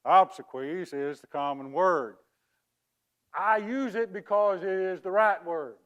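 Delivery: badly faked English accent. Fraud explains his wrong word to mourners in a bad English accent. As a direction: pose as an Englishman with a poor accent. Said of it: "That is the worst English accent".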